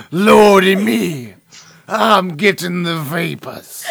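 slow, loud Southern drawl; Southern wrestler belle. Acted. Podcaster as a sweating big man doing a Southern belle. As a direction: fan yourself and drawl. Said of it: "a huge three hundred pound man sweating".

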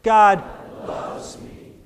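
with conviction. Shown as a demonstration. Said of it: "Here we go".

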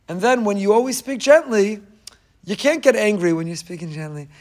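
ordinary talk, nothing marked

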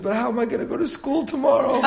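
high-pitched mock wail of a little boy; retold tearful protest; imitated child crying. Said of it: "he started crying hysterically".

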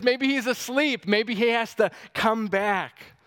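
gleeful mocking jab; trash talk. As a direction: rub it in, mocking their god. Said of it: "this is trash talk".

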